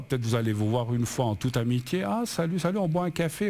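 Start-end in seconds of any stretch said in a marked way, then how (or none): 2.0-3.5 higher-pitched, breezy hello between friends; casual friendly greeting. Acted. Acts out a friendly chance meeting.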